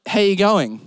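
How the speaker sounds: casual Australian greeting in his own voice; Australian accent. Shown as a demonstration. Barista greeting Canadians, Australian accent. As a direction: greet them in relaxed Aussie. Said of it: "I would say".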